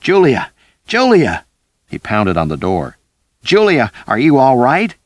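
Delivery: high, loud shouts through a door; man yelling outside the door. A narrator's reading. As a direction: pound and yell her name. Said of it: "Ricky was yelling".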